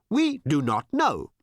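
high, slow odd alien drone. Acted. Alien answering Tricia, slow and blank. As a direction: drag it out blankly.

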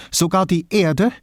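pressed, tight, high and loud; strangled voice. A narrator's reading. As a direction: squeeze the words out through a tight throat. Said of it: "setzte sie mit gepresster Stimme an".

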